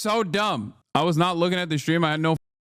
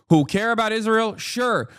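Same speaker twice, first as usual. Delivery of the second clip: normal talking voice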